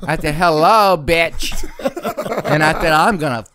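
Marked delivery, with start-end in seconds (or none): 0.3-1.5 laughing loud sassy hello bitch. Retold or imitated. Mocking the startled pimp, loud sassy laughing hello. 2.9-3.4 mock threat. Threat to pimp retold.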